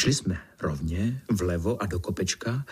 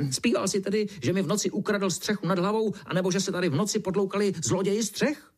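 higher, huffy beetle spluttering, faster at the end; 9 semitones higher, faster than usual. Acted. The beetle presses the ant about the roof thieves, high spluttering. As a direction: fume and rush the accusation. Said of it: "A brouk prskal dál".

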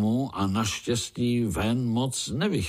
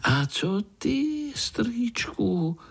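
put-on much higher, impatient child voice; eager little spider; much slower than usual. Little Pája begs uncle to start, high eager child voice. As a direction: bounce with eagerness to hear the story.

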